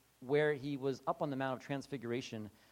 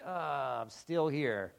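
irritated Jesus; 4 semitones lower than usual. Retold or imitated. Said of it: "He's irritated, like".

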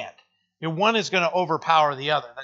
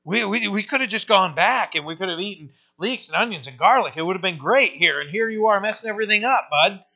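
complaining Israelites; 3 semitones higher, 3 dB louder, faster than usual. Retold or imitated. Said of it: "They're literally saying".

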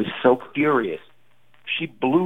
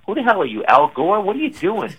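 higher, exasperated mock yell; retold yell; 8 semitones higher than usual. Comic retells scolding his wife offstage, higher mock yell. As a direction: snap at her, retelling it half-playfully. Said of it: "Don't yell at me".

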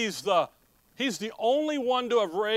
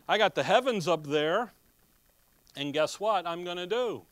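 slow, drawn-out proclamation with each new stretched; lightly voiced God revealing a hidden plan; preacher voicing God, slow and grand; voice of God announcing; slower than usual. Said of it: "he comes along and he says".

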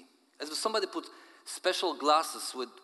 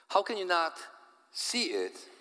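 exasperated outburst; 7 semitones higher than usual. Acted. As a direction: fling the question back. Friend shrugs, asks back.

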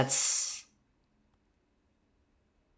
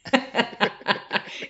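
evil chuckle; 7 semitones higher than usual. Pretend. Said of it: "Is that your evil, sinister laugh?".

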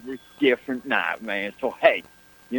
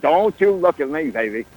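louder mock warning; 5 dB louder than usual. Telling off the athletic director, a louder mock warning. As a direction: punch it out harder the second time. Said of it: "I said".

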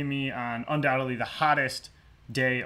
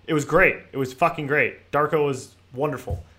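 sarcastic; 6 dB louder than usual. Acted. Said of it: "Obviously, tongue-in-cheek".

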